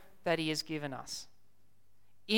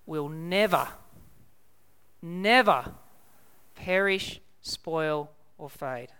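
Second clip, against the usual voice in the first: "never" repeated after a pause, the second one stronger; emphasis on never; 2 semitones lower, slower than usual. Real, not acted. Preacher assures the congregation of their inheritance, emphatic repeated "never" with long pauses. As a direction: hammer "never" twice, then space out each word, falling away on "fade". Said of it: "I want to emphasize the word never".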